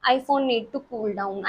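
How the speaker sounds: very slow, mock robotic phone alert; lightly imitated phone notification; phone's warning voice. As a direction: drag out "iPhone need to cool down" like a machine. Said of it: "फिर वो कहता है".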